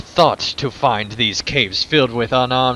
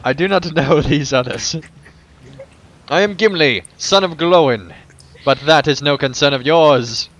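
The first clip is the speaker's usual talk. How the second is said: lightly voiced proud dwarf; Gimli the dwarf; 2 semitones higher, 3 dB louder than usual. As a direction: speak as a stern, proud dwarf.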